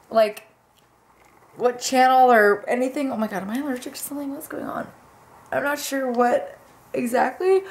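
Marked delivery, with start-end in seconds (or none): 3.1-4.9 startled aside. Real, not acted. Sudden allergy fit.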